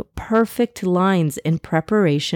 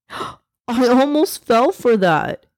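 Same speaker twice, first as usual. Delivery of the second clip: exclaiming; 6 semitones higher, slower than usual. A narrator's reading. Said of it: "he exclaimed, laughing".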